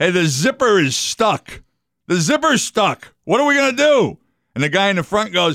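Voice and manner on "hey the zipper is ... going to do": put-on high, rising yell. Telling a joke, voicing a hunter in a moose costume: imitating a yell. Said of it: "he yells back to the guy behind him".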